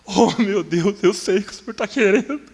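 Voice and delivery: clamor alto e agudo a Deus, reencenado com força; grito chorando. Retold or imitated. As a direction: grite a Deus em choro, esticando o final. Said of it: "Daí eu comecei a chorar". (grito choroso de súplica, bem agudo)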